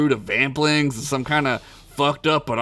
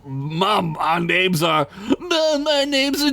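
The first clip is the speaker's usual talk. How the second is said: whiny goblin; 7 semitones higher, slower than usual. Acted. Goblin correcting his mother.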